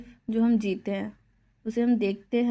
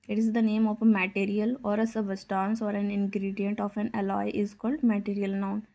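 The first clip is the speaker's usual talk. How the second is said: very slow, word by word; slow dictation; much slower than usual. Acted. Teacher dictates a definition to the class, very slowly. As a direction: spell it out at writing speed.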